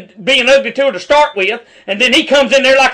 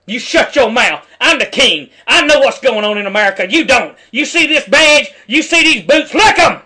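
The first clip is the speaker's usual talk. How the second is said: mock arrogant cop. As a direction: sneer it like a cop on a power trip. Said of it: "Is his attitude".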